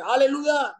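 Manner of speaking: high-pitched calling-out, imitated; mock shout from a passing car window; retold shout. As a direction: call it high, without full volume. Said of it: "saya tinggal teriak di kaca".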